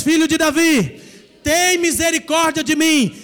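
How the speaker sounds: loud, pleading cry to the Son of David. Shown as a demonstration. Preacher leading the congregation in a loud cry for mercy. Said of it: "Mais uma vez".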